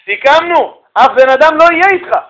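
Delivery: high-pitched mock complaint; acted indignant protest. (מחאה נעלבת מוצגת, בקול גבוה)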